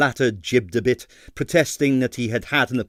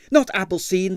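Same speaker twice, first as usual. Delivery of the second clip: panic-stricken; 9 semitones higher than usual. Acted. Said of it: "panic-stricken".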